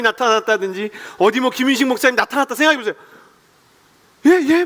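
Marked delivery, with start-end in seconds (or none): 4.3-4.6 high, loud startled reply; startled yes. Retold or imitated. Startled drunk answering the pastor, high and loud. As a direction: jump in surprise.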